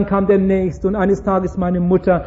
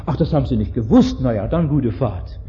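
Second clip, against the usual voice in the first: low, softer, casual brush-off; lenient policeman; 7 semitones lower, 4 dB quieter than usual. Acted. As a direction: play an officer waving it away. Policeman mockingly lets driver go.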